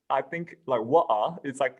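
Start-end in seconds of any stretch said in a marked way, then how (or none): 0.8-1.4 "water" with the T dropped, British style. Shown as a demonstration. Imitating the British "water" to friends. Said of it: "the way that they pronounced water".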